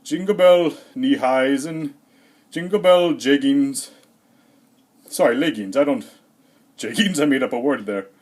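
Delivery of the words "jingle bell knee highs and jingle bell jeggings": put-on goofy kid joke. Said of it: "he's like".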